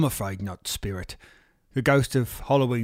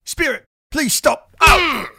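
high, loud desperate plea; pained pleading; 14 semitones higher, 9 dB louder, slower than usual. Acted. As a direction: beg it to stop through the pain. Being beaten, pleading.

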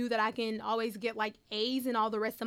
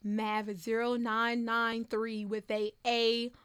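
drawn-out reveal; slower than usual. Retold or imitated. Teacher's slow reveal of good news.

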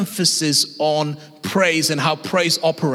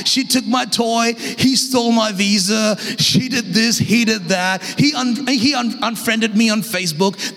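lightly hammed-up complaining; mock whining; 2 semitones higher than usual. Preacher imitating God's kids in the car, mock whining. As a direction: imitate kids tattling with a touch of whine. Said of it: "We're constantly whining".

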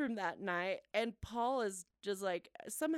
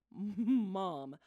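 slow, spaced-out words, sinking lower; stunned reproach; 5 semitones lower, much slower than usual. Retold or imitated. Stunned son to mom after prank, slow reproach. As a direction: draw out each word in stunned disbelief.

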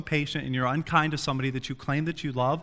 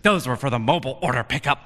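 imitated frustrated woman=3; 3 dB louder, faster than usual. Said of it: "And she's frustrated".

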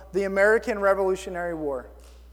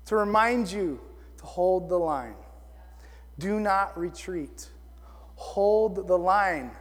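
earnest, quiet urging; 3 semitones lower, 5 dB quieter, slower than usual. Real, not acted. Earnest reminder after the shouted version.

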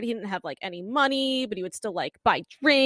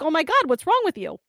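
higher, alarmed retelling; mock panic; 6 semitones higher, 4 dB louder than usual. Co-host retelling a woman faced with a crying man, panicking. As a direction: act out a flustered character, lightly.

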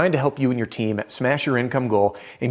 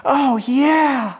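much higher, drawn-out moaning oh yeah; hammed-up seductive moan; mock romantic moan, high and stretched; 13 semitones higher, 4 dB louder than usual. Shown as a demonstration. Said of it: "the part that I've really dreaded doing".

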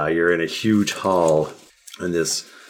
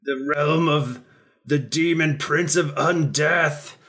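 booming demon lord; 7 semitones higher than usual. Acted. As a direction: proclaim it like a demon prince. Demon lord threatens the heroes.

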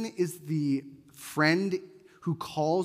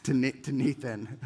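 a lightly played annoyed friend, lower; mock dismissive; 4 semitones lower than usual. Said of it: "You're like".

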